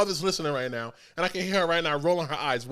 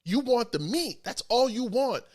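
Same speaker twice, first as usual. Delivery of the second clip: insistent friend. Retold or imitated. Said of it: "He goes".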